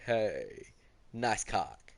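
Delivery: half-hearted meme voice; terrible voice impression. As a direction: toss off a lazy meme impression. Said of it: "That was a terrible voice impression".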